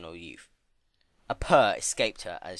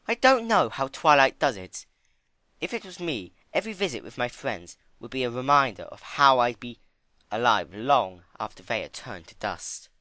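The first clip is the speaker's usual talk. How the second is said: higher, louder, grave reflection; sober Rarity; 4 semitones higher, 4 dB louder than usual. Acted. Rarity explaining to Fluttershy about Twilight, grave and higher. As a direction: weigh each word.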